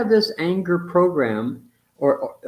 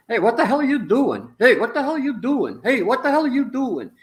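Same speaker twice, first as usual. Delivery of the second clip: a hint of a gruff father yelling; mock angry dad; 7 semitones higher, 3 dB louder than usual. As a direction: bark it like a fed-up dad, lightly. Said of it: "he said".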